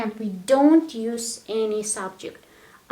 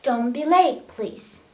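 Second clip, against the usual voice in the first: polite request. Shown as a demonstration. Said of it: "want to sound a little bit, uh, polite".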